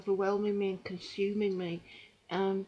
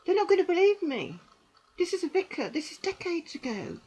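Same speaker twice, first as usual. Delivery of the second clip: inner despair; 7 semitones higher, 3 dB louder than usual. Retold or imitated. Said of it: "'cause I also thought".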